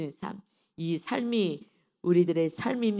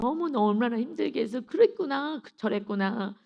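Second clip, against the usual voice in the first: sweet talk; 4 semitones higher than usual. Retold or imitated. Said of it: "그냥 달콤하게 얘기해".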